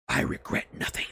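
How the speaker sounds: whispered, unrepentant. Acted. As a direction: whisper it with no regret.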